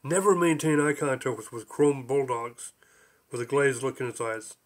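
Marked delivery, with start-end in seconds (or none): 0.0-2.7 mildly formal recitation; measured proclamation, slowing toward the end; reciting. A narrator's reading. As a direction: recite it as if reading out a fortune. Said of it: "The porpoise recited".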